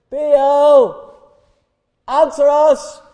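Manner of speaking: loud, high call to a god; shouting. Acted. Prophets calling on Baal to answer, shouting. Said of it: "and they shout".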